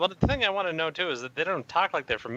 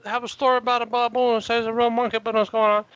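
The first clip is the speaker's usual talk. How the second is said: mocking voice; 9 semitones higher, 3 dB louder than usual. Mocking a headline writer, high.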